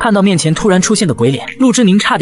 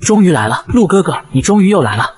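eerie ghost voice. Acted. Female ghost greets her Lu ge ge, lightly eerie. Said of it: "结结结的怪笑声".

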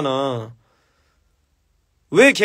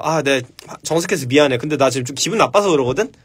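gentle apology demo; 4 semitones lower than usual. Shown as a demonstration. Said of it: "이렇게 얘기하잖아".

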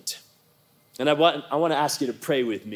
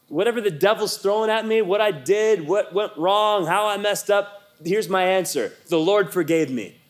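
raised pitch, building to a firm answer; defiant declaration; 5 semitones higher than usual. Acted. Believer answering the devil's accusations, defiant.

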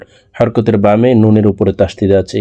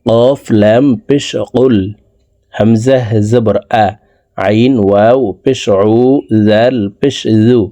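spelling out slowly; slower than usual. Shown as a demonstration. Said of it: "বানান করে শব্দে শব্দে ভেঙে ভেঙে বলে দিচ্ছি".

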